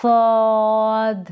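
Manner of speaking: सौद with a full, heavy, rounded s; heavy saad. Shown as a demonstration. Teacher shows pupils a heavy, drawn-out सौद. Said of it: "ये पूर पढ़ेंगे".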